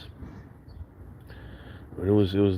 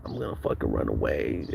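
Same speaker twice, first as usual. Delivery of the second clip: mock sulky kid; 7 semitones lower, 7 dB quieter than usual. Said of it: "I was, like, crying in my room".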